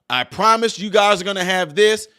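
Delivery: lightly voiced campaigning politician, loud promises; hammed-up stump speech to black voters; a hint of a preachy politician; mock politician pitch. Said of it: "It's white people telling y'all".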